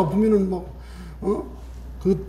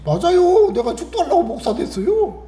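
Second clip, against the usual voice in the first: indignant mock retort; 10 semitones higher than usual. Pastor answering a relative's jab about becoming a pastor, mock indignant. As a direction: protest it high with a laugh in the voice.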